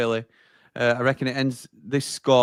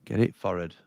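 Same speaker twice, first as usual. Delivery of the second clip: "forward" as "forrad" in Sheffield accent; low, soft Sheffield accent, "forward" said "forrad"; 5 semitones lower, 6 dB quieter than usual. Shown as a demonstration. Co-host echoing a viewer's phrase, Sheffield accent on "forward". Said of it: "as it said in the Sheffield accent".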